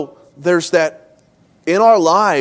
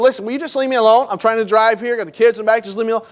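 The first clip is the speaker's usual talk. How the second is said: higher, fast, irritated brush-off; exasperated husband snapping while driving; frustrated snap; 6 semitones higher, faster than usual. Retold or imitated. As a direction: tell her to back off, fast and annoyed. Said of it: "I am just frustrated".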